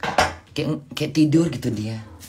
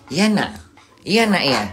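cooing reply; 3 semitones higher than usual. Real, not acted. Answering the cat's meow.

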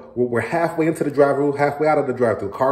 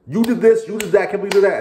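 much higher and louder, blaming shout; angry accusing yell; 9 semitones higher, 6 dB louder, faster than usual. Retold or imitated. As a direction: yell the accusations in a heated fight. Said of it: "you're not gonna be calm".

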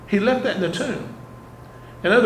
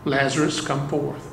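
a commanding call, not actually raised; loud command; 3 semitones lower, 5 dB quieter than usual. Retold or imitated. Preacher voicing Jesus calling Lazarus from the tomb, understated command. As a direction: call Lazarus out with quiet authority. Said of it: "Jesus commanded in a loud voice".

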